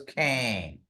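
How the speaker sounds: Kang with a nasal rattle. Shown as a demonstration. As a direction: buzz Kang through the nose. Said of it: "a rattle in your nose".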